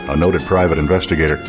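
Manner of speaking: normal talking voice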